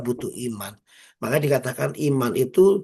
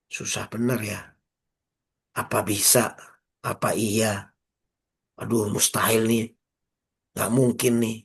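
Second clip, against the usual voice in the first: doubtful complaining; 2 semitones lower than usual. Retold or imitated. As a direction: sigh it out like someone losing hope. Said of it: "dibanding kita ngomong gini".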